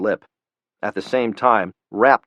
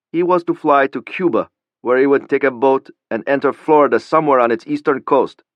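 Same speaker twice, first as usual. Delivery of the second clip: put-on higher, tense young man's voice; nervous young Pakistani; 5 semitones higher, 3 dB louder than usual. A narrator's reading. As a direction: voice him scared and unsure. Khalili voiced by narrator.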